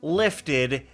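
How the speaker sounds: very slow, stretched-out words of amazement; drawn-out disbelief. Real, not acted. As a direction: drag every word out in amazement.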